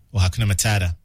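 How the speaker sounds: the phrase in an American accent, dropped h and a flapped d, "ma-TAE-da"; mock American accent. Shown as a demonstration. DJ joking about how Americans say the song title, American accent. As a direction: read the phrase like an American tourist would. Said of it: "if you're reading it in American accent".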